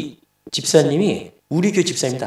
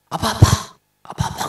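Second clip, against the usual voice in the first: bright excited calling; 9 semitones higher than usual. Retold or imitated. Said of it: "너 왜 이렇게 밝냐, 소리가?".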